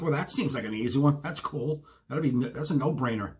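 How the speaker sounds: breezy, no-big-deal assurance; nonchalant. Retold or imitated. Customer telling the cashier it's easy, nonchalant. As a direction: say it like it's a no-brainer. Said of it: "So, like, nonchalant, like, no big deal".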